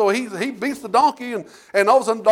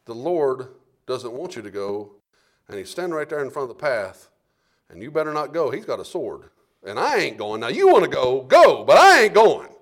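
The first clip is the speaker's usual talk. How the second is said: donkey speaking; 7 semitones lower than usual. Retold or imitated. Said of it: "what that donkey was saying".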